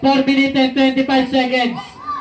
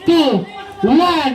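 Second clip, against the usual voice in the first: countdown call; 3 semitones higher than usual. Acted. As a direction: punch out the last two seconds. Final countdown called out.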